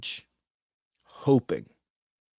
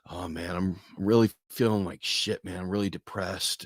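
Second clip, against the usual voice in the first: mock depressed; 3 semitones lower, 4 dB quieter than usual. Imitating a depressed friend.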